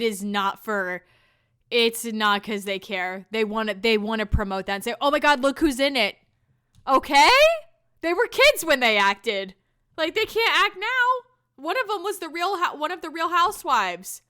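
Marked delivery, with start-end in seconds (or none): 5.0-14.2 higher, louder mock excitement; mock-excited promo gush; mock hype. Mocking promo then ranting.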